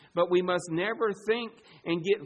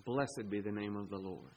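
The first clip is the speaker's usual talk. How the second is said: softer, low, reverent quoting of Job; hushed reverent quote; 7 semitones lower, 10 dB quieter than usual. Retold or imitated. Preacher quoting Job in a hushed, reverent voice. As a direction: lower the voice as if praying the words. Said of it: "Or would we say like Job".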